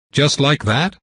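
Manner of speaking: rising, disbelieving "Just like that?" pitched high; incredulous question. Acted. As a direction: push "like" up in shocked disbelief.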